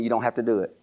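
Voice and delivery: a soft laugh through the quote; chuckling as he retells her words; laughing protest. Retold or imitated.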